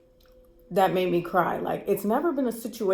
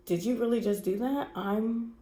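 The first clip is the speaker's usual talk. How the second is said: quiet stunned disbelief, retold; hushed retold shock, words dragged out; stunned, speechless; 6 dB quieter than usual. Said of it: "I'm fucking speechless".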